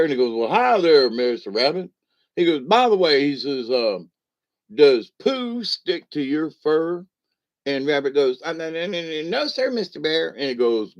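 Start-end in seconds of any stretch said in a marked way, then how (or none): 0.3-1.9 a lightly voiced jolly bear greeting the rabbit. 2.6-7.1 higher, slow sly question; a lightly voiced bear asking innocently; bear's question. Bear asks the rabbit in a joke. 8.4-10.3 higher, hesitant polite denial; a lightly voiced nervous rabbit saying no; timid rabbit. Rabbit answers the bear.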